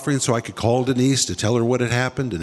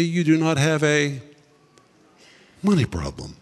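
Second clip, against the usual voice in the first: voice of the Lord. Retold or imitated. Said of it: "the Lord says to me".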